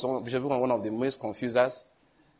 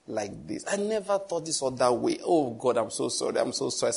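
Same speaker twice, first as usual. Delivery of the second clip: heartbroken prayer; 5 dB quieter than usual. Retold or imitated. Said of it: "I was heartbroken".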